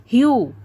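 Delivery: "Hue" stressed and drawn out; heavy stress. Shown as a demonstration. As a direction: lean hard on "Hue". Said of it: "hue is being stressed a lot".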